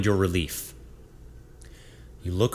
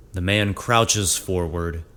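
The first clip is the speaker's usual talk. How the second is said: ordinary delivery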